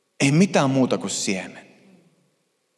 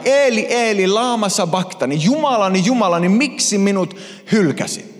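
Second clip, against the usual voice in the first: raised, desperate call to God; anguished cry; 4 semitones higher than usual. Acted. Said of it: "hän huutaa näin".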